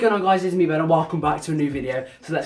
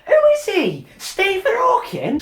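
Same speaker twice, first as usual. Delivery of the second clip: 1 mocking jeer; 12 semitones higher, 4 dB louder than usual. Inner mocking of the teacher.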